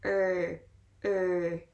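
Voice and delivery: "er" alone, as the vowel sound opening "earth"; isolated EA sound. Shown as a demonstration. Teacher breaking "earth" down for learners, isolated "er". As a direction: sound out "er" by itself. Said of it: "the E A sound that makes er".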